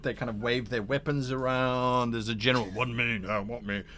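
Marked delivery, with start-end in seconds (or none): 2.7-3.8 mock confused crowd, last voice pitched way up; crowd muttering. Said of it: "sort of general muttering going on".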